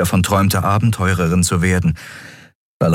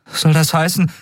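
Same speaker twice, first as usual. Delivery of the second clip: high, trembling with excitement; hardly daring to hope; excited boy; 10 semitones higher than usual. Acted. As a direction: Miko quivering with excitement, voice high. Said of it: "zitterte vor Aufregung".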